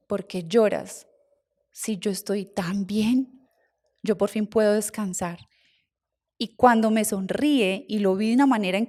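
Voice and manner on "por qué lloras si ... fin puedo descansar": gentle ghost voice. Retold or imitated. Uncle's spirit comforting the crying girl at his funeral, hushed and slow. Dead uncle speaks in vision.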